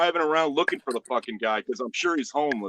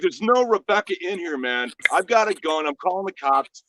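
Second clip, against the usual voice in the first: raised, exasperated retold warning; acted warning; 4 semitones higher, 3 dB louder than usual. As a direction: warn off the intruder, insistent. Retelling a standoff with an intruder.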